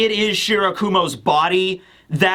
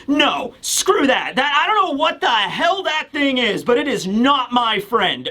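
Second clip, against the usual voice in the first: defiant refusal; 4 semitones higher than usual. Retold or imitated. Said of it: "Present Mike being like".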